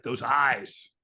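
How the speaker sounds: lightly mimicked admiring exclamation; mock-smitten quote; Donald Trump. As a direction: gush it in a light imitation, leaning on the words. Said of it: "He's like".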